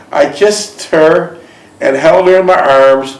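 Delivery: measured read-aloud storytelling; story narration. A narrator's reading. Man reads his romance memoir aloud to a listener, measured narration. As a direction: read it like a personal memoir, phrase by phrase.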